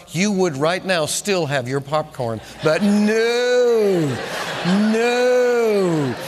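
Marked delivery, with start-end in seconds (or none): 2.6-6.1 laughing scold. Retold or imitated. The Lord laughingly chiding George for refusing help. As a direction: tease yourself for the refusal.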